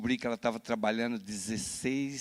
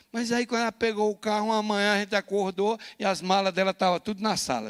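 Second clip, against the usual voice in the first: louder, higher, building drama; intense storytelling; 9 semitones higher, 7 dB louder than usual. Real, not acted. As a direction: preach it out loud and urgent. Pastor dramatiza a cena, voz alta. (pregando alto e dramático)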